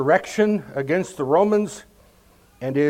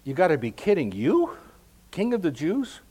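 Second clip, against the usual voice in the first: mock disbelief; 2 semitones higher than usual. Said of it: "kind of like".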